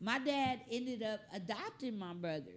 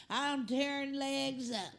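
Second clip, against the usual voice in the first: hillbilly accent, voicing a dog, louder; 3 dB louder than usual. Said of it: "That dog got a hillbilly accent".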